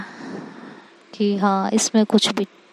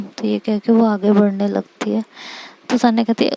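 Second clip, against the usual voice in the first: usual speaking voice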